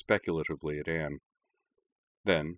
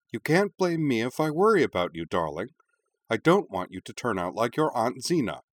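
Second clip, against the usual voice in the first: higher, louder worried mother; mother speaking loudly; 5 semitones higher, 4 dB louder than usual. Acted. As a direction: raise your voice as the anxious mother. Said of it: "speaking loudly enough that Anne could actually hear".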